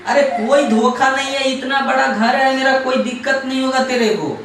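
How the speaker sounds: insistent reassurance. Acted. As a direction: push the reassurance over the other's protests. Husband insists over crying wife.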